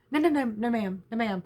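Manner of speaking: acted store worker correcting a customer, starting high and loud; hasty denial. Store worker reassuring customer about the price, hasty denial. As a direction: rush in with repeated polite noes.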